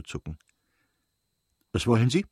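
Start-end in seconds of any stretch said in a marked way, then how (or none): 1.7-2.2 rasch, mit Bruststimme. A narrator's reading. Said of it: "sagte sie rasch, mit Bruststimme".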